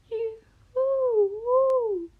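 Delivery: high hooting owl voice. Acted. Owl startled awake, hooting at the magpie. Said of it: "hoots the owl".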